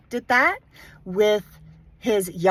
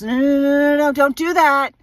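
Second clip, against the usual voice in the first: raised, louder, urgent "stop that"; frantic warning; 5 semitones higher, 7 dB louder than usual. Retold or imitated. Mother heading off her kids before a meltdown, frantic warning. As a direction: cut in urgently, voice jumping up. Retold panicked warning to siblings.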